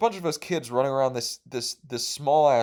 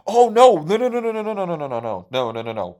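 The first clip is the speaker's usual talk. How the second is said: much higher, loud burst of no, fading down; mock panic; 5 semitones higher, 7 dB louder, faster than usual. Real, not acted. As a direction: stop yourself in alarm, then calm. Stops himself going off topic.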